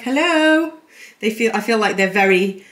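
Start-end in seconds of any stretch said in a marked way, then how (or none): 0.0-0.7 put-on 1 baby hello. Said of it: "She's like".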